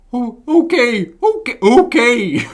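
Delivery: high, loud, drawn-out puppet voice; cartoon puppet voice. Player warming up a character voice, exaggerated puppet. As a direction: push it up high and stretch it. Practising the Kermit voice.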